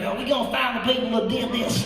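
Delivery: lightly imitated chuckling president; a touch of mock chuckle in a presidential voice; George Bush. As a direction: do a light impression of a chuckling politician. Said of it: "weird chuckling thing with his face".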